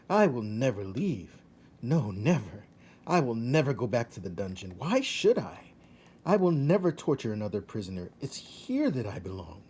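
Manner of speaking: lightly voiced rat, giddy and vowing; a hint of a dizzy happy rat; rat Roscaro, delighted. Rat spinning through castle rooms, lightly voiced and giddy.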